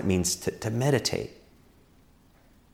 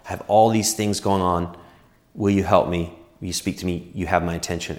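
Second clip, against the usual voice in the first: prayer that sinks low and soft; modelled prayer; 4 semitones lower, 3 dB quieter than usual. Shown as a demonstration. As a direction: pray it simply, growing quieter towards the end. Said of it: "go on a walk and pray".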